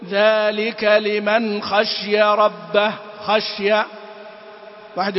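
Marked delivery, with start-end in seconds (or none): 0.1-3.7 wrong "خشي" with a silent shin; kasra dropped to sukun. Shown as a demonstration. Teacher showing students' recitation mistake, kasra dropped. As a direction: recite slowly but close "خشي" as khash-ya, no i vowel. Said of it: "عدم تبيين الكسرة أو تحويلها إلى سكون".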